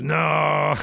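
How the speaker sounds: sudden high, loud "No"; blurting a panicked denial. Retold or imitated. Peter to the servant girl, a sharp high denial. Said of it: "Peter even gets stronger every time".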